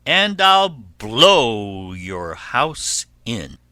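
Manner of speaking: loud, drawn-out threat; wolf's threat. Acted. Wolf threatens to blow pig's house in, loud threat. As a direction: threaten slowly and loudly, storybook style.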